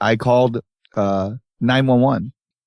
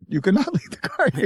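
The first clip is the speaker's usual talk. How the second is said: laughing through the hotelier impression; mock accent, laughing; 9 semitones higher, 3 dB quieter than usual. Hotel owner repeating his refusal, mock accent cracking into laughter. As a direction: repeat the Indian-accented line high, breaking into a laugh. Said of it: "He kept saying that".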